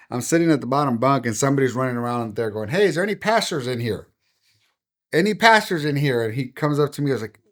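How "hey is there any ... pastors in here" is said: higher-pitched, searching call. Retold or imitated. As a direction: imitate someone asking round a whole room. Somebody running around asking for pastors.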